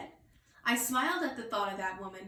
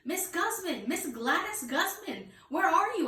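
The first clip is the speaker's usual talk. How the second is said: higher, called-out name; hollering; 7 semitones higher than usual. Acted. Girl hollers for snack lady in kitchen, calling out. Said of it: "I hollered".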